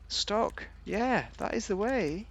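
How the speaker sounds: slow, high crooner voice, lightly done; a light croon in a famous singer's style; singer impression. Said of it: "That's what the singer would have done".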